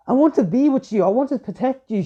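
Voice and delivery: high, loud, impassioned cry; a girl desperate to reach her love; anguished plea. Acted. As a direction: plead fiercely to protect him. Yariko crying out for Naruto.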